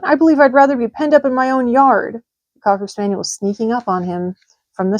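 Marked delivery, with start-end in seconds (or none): 0.0-2.2 put-on young pig's voice, pitched higher; a small worried pig thinking aloud; Wilbur the pig. A narrator's reading. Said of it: "he thought".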